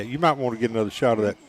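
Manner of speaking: teasing, breaking into laughter; laughing tease. Real, not acted. Co-host kids announcer about his corn liquor flask, laughing. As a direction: rib your partner through a laugh.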